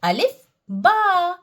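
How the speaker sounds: अलिफ, बा said slowly and drawn out; slow letter names. Shown as a demonstration. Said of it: "इसको आप याद रख सकते हैं". (धीरे से अक्षर बोलना)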